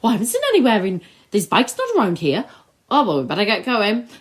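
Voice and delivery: fast, hammed-up Welsh accent; terrible Welsh accent. Mocking the padded bike scene dialogue, in a fast bad Welsh accent. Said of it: "That's a terrible Welsh accent".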